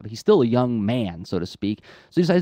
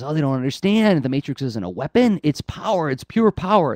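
higher, building mock revelation; acted awe; 5 semitones higher, 3 dB louder than usual. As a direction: play an underling thrilled by secret power, rising at the end. Underling alone realizes the Matrix's power.

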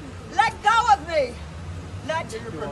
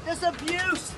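hushed prayer; 10 dB quieter than usual. Real, not acted. Woman under arrest quietly praying against the abuse, hushed. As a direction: pray under the breath for deliverance.

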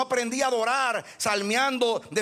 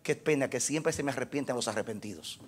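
rueful reply; 8 semitones lower, 6 dB quieter than usual. Retold or imitated. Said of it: "Y yo le digo a ellos".

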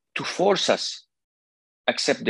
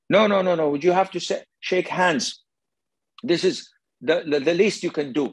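higher, flustered insistence; insistent woman; 5 semitones higher than usual. Acted. Woman pressing the sheikh to shake hands, insistent. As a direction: imitate her hurried objection.

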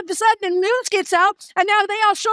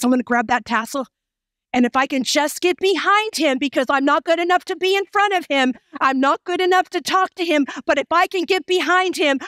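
determined woman; 4 semitones lower, faster than usual. Acted. Woman resolves to find Jesus.

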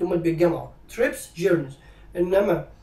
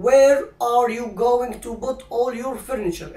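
slow dictation; 3 semitones higher, 4 dB louder, slower than usual. Shown as a demonstration. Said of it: "slow model sentence".

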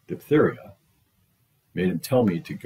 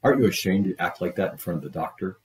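fast, level follow-up scolding; mother scolding the child, quick and level; faster than usual. Acted. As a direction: rush the reproach out. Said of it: "the mother yelled at her".

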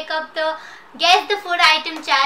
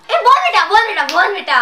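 excited shout; 3 semitones higher, 7 dB louder, faster than usual. Real, not acted. Excited guess calling out.

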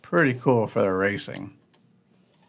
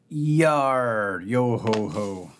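drawn-out pirate growl, slowing into the yo-ho-ho; playful pirate; much slower than usual. Pretend. Host showing the pirate car, playful pirate voice. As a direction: stretch it out like a mock pirate.

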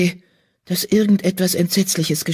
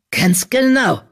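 smug, higher sneer; mocking villain admitting it; 5 semitones higher, slower than usual. A narrator's reading. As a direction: gloat over the confession. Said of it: "sagte Habicht Frost spöttisch".

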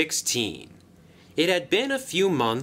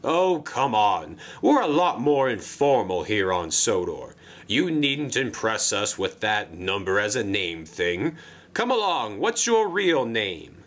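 lightly voiced jovial boss brushing off formality; a touch of friendly disbelief; Sir Topham Hatt. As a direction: coax the newcomer with swooping intonation. Sir Topham Hatt coaxes the engine.

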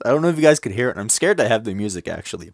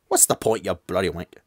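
bad British accent. Second try at the transfer student, bad British accent. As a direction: toss off a badly faked British accent. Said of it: "I can't even do a British accent anymore".

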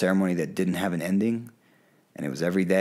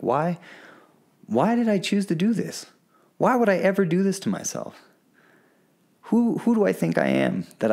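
high, anguished cry of why; retold screaming at the jungle; 11 semitones higher than usual. Alone in the jungle, crying out to the universe in anguish. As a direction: wail the questions up high in despair. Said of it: "Screaming and crying and screaming and crying".

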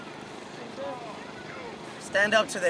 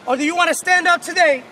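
pep speech; 2 semitones higher than usual. Real, not acted. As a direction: fire them up. Coach firing up team.

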